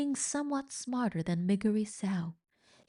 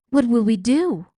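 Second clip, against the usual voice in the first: loud wailing plea; 4 semitones higher, 10 dB louder than usual. A narrator's reading. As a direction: wail it out in despair. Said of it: "wailed Cook".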